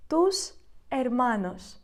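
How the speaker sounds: «Tus hermanos» said slowly, each syllable clear; slow repeat. Shown as a demonstration. Teacher repeating the phrase for students, slow and clear.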